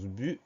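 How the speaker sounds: "but" pronounced "bu", the T not sounded; silent final T. Shown as a demonstration. Teacher explaining the mute letter to pupils, silent final T in "but". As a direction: leave the T off the end of "but". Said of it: "on considère le T comme une lettre muette".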